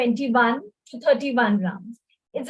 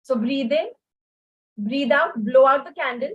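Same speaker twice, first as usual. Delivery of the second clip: blowing out hard. Shown as a demonstration. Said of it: "when you're breathing out".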